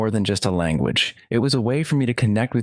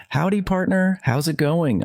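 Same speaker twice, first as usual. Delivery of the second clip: cowboy voice; 8 semitones higher than usual. Retold or imitated. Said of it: "trying to sound like a cowboy".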